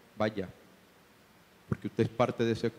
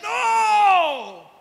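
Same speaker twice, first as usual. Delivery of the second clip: much higher, loud defiant shout; defiant flesh; 9 dB louder than usual. Acted. The flesh refusing the spirit's command, loud defiant shout. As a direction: fling back a stubborn refusal. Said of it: "Y la carne dice".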